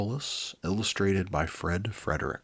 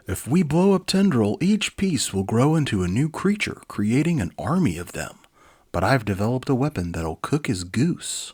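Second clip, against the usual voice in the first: confident gunslinger; 5 semitones higher, 7 dB louder than usual. Acted. Liquidator explains his weapon.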